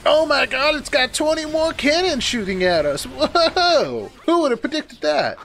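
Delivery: high, loud alarmed outburst; real shock. Real, not acted. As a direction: react in loud disbelief as the cannons appear. Giant enemy fleet appears.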